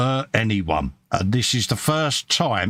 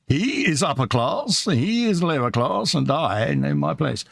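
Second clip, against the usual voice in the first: class sketch voice; 5 semitones higher than usual. Retold or imitated. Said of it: "as Ronnie Barker would say".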